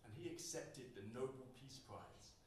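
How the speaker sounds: spoken word poem, rhythmic and performed; poem performance. Acted. Poet performing his poem about voice on stage, rhythmic.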